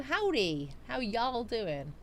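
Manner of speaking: drawn-out Southern US howdy; Southern accent. Pretend. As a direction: put on a slow Southern greeting. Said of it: "I'm gonna practice my Southern accent".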